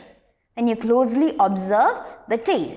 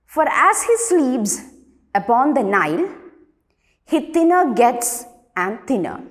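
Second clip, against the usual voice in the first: measured classroom poem reading, a little raised; poem recitation. Acted. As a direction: read the poem out line by line, with pauses. Reads the poem aloud.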